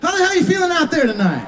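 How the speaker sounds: calling out to the crowd. Real, not acted. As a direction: shout it out to fire up the room. Singer greets the crowd from stage.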